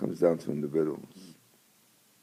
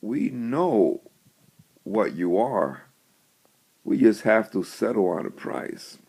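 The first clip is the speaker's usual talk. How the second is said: a slightly louder, pointed retort; intense, pointed; 3 semitones higher, 3 dB louder than usual. Retold or imitated. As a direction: lay the punchline down firmly on her. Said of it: "he looks at her very intensely and he says".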